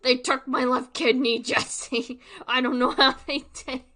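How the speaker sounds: loud desperate Walter White; Walter White impression. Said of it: "like Breaking Bad".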